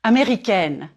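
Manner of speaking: Américaine ending on a clear closed N; Américaine with a firm final N. Shown as a demonstration. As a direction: flatten the tongue and close the N in Américaine. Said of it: "Flatten your tongue on the N and close it".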